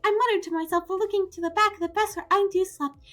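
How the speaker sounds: high, sweet angelic voice held throughout; angel mode voice. Acted. Streamer to chat, sweetly in a high angel voice. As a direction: play a beautiful, kind angel. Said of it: "talk in my beautiful, angelic, high-pitched voice".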